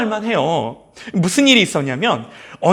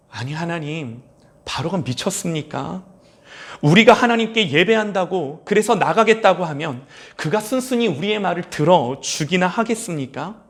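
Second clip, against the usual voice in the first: incredulous Moses. Pretend. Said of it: "꼭 이렇게 말한 건 아니지만".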